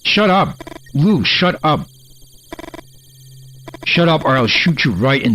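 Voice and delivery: high sharp yell; shouting. Acted. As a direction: yell at him to shut up. Yelling at game character.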